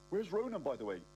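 high, rising frantic alarm; sudden panic. Acted. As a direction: panic about the son. Realises son still inside.

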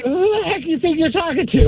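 high, tough tiger voice. Retold or imitated. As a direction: give the tiger some attitude. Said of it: "the tiger's like".

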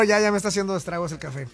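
ordinary delivery

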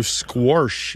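"squash" said as "squorsh"; intrusive R. Shown as a demonstration. Host shows what you'll hear, intrusive R. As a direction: put an R before the SH in "squash". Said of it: "sometimes you'll hear".

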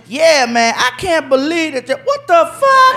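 delight turning into a high shocked what the fuck; surprised man. Retold or imitated. Man flipping the card, shocked by the message. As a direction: cheer that sours into outrage. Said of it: "voice changed".

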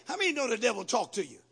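usual speaking voice

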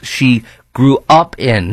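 "she grew up in" slow, leaning on "up"; stress on grew up in. Shown as a demonstration. Host pointing at the columnist's key phrase, slow and stressed. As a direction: drag out "grew up in" slowly. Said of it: "key phrase".

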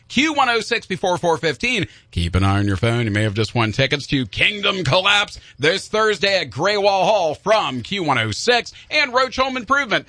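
lightly voiced DJ sponsor read; an understated radio ad read; radio promo read. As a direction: read the winners note like a promo. Reads contest and sponsor copy.

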